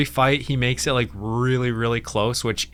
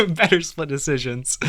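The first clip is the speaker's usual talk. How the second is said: "Better split decisions" said through laughter; laughing; 3 semitones higher than usual. Real, not acted. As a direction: crack up while repeating it. Repeats own joke laughing.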